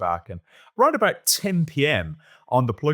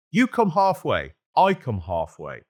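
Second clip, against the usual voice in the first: German voice from the dark; 3 semitones higher, slower than usual. Retold or imitated. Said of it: "floated out of the darkness".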